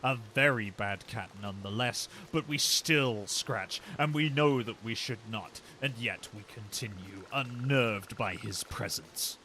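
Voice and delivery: slow, drawn-out storytelling; mock narration. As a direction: narrate it like a solemn tale, slowly. Mock narration of cat scratching.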